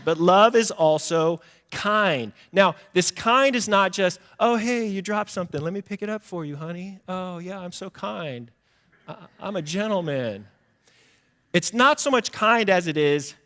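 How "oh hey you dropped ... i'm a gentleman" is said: light, soft, raised self-pleased voice; mock gallantry. Showing off small favors to honey, mock gallantry. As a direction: play the oh-so-kind gentleman, softly. Acting out a shallowly kind gentleman.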